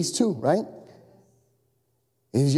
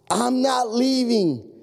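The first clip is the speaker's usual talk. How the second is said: slow, higher, word-by-word pledge; solemn vow; 5 semitones higher, much slower than usual. Acted. Marine to trapped firemen, solemn vow. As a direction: promise it with total resolve.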